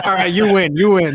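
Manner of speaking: chuckling through the words; laughing concession. Real, not acted. Conceding the predictions to a friend, laughing. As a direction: give in while still laughing.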